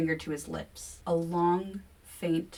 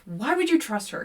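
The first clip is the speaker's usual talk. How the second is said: higher, louder demand; 7 semitones higher, 5 dB louder than usual. A narrator's reading. Kevin demanding of William, loud and higher. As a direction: demand an answer. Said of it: "Kevin demands".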